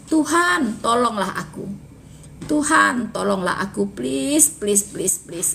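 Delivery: seruan Tuhan tinggi dan keras, please makin melemah; memohon dengan memelas. Acted. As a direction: merengek please berulang sampai lirih. Perempuan memohon dengan sangat. (perempuan Kanaan merengek kepada Yesus, memelas dan makin lirih)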